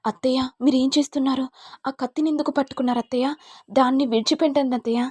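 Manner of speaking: fast, anxious plea to put the knife down; frightened pleading. Acted. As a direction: rush to stop her with the knife. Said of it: "ఇక Ananya tension పడుతూ".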